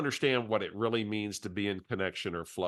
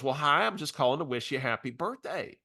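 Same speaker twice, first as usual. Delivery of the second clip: imitating Barbara; 4 semitones higher than usual. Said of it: "use her voice for impact".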